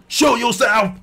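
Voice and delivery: hammy brute calling out hiding enemies; mock villain shout. Villain Bautista roars at hidden fighters, mock shout. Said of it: "然后大吼大叫".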